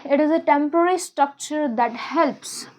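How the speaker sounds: very slow, word by word for copying; slow dictation. Shown as a demonstration. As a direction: dictate it slowly to the class. Teacher dictating notes slowly.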